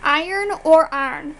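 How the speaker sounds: IRON first as "eye-urn", then as "arn"; two syllables, then one squashed IRON; two pronunciations. Shown as a demonstration. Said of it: "How do you pronounce these words?".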